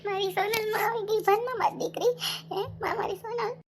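a touch of tears on greeting the daughter; tearful relief. Acted. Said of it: "કેમ રડો". (રડમસ અવાજે)

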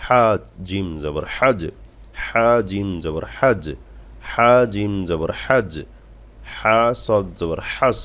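slow, measured letter-by-letter Quran drill; spelling-out recitation. Shown as a demonstration. Teacher reciting for students to follow, slow drawn-out drill. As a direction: draw out each letter, then land the syllable. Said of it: "আপনারা খেয়াল করুন পড়ার মাঝে একটু".

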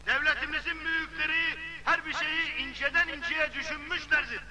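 loudspeaker speech. Acted. Speech over loudspeaker to village.

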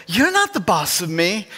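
lightly voiced whiny kid sister; a hint of a pouting little sister; imitating little sister. Sister talking back to bossy older brother, mildly whiny. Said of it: "my sister would look to me and say".

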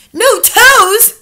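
high, loud, incredulous question; astonished cry. A narrator's reading. Child hearing witches have no toes, crying out. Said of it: "I cried".

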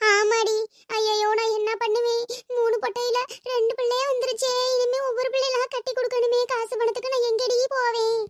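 wailing over her burden; tearful lament. Acted. Mother fretting over marrying off her daughters, tearful lament. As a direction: lament helplessly, voice held up. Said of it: "இப்ப எதுக்கு அழுகிறிய நீங்க".

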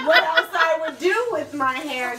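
slow, through giggles; laughing. Real, not acted. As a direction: laugh while you answer. Laughs at silly question.

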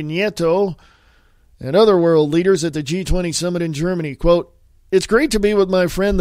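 steady, projected news-reading delivery. Acted. Host reads a news story to podcast listeners, news read. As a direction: read the article out like a radio newscaster.

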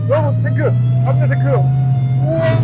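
high, loud thrilled cheers; excited shouting. Real, not acted. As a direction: announce the ride with glee. Starting the tank ride.

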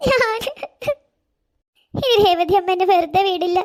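sobbing, slow and fearful; crying. Acted. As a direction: dread the punishment through sobs. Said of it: "നീ ഇങ്ങനെ കരയാൻ". (പേടിച്ചു കരഞ്ഞ്)

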